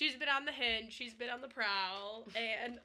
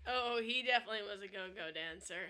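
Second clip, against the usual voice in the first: laughing; 2 semitones lower than usual. Real, not acted. Laughing at the dancer's picture.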